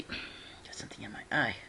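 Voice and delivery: soft muttered complaint under the breath; whispered aside. Real, not acted. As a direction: murmur it to yourself. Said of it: "aside while recording".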